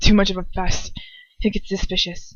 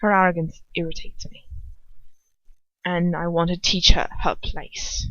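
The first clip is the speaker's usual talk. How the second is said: calm. Acted. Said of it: "he says quite calmly".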